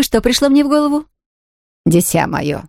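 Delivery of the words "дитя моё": lower, lightly voiced older aunt gently chiding; a hint of a disapproving elderly aunt; aunt shaking her head at her niece, lower; reproving aunt. A narrator's reading. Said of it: "покачала головой миссис Чилтон".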